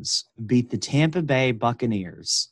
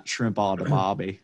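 put-on Australian accent; 4 semitones lower than usual. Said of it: "those weirdos down under".

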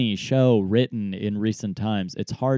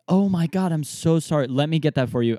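flustered apology; 6 semitones higher, 3 dB louder than usual. Retold or imitated. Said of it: "And I was like".

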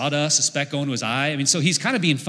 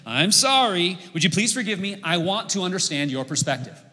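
sincere apology demo; 4 semitones higher than usual. Shown as a demonstration. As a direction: repeat the apology, a little higher and earnest. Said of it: "this will help you out here".

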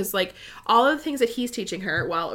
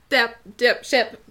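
higher, louder excited chanting; excited reaction; 3 semitones higher, 7 dB louder, slower than usual. Retold or imitated. Reader re-enacting her instant reaction to the scene, playfully excited. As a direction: re-enact a gleeful reader reaction, punching each word. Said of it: "immediately I was like".

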